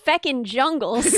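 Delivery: "jongles" said with an o for jingles. Real, not acted. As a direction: say "jongles" rhyming with bongles. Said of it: "found out it jongles".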